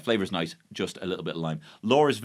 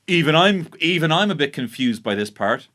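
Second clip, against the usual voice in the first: louder, self-important delivery; mock arrogant; 2 semitones higher, 4 dB louder than usual. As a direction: say it as if you're normally above confusion. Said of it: "quite arrogantly".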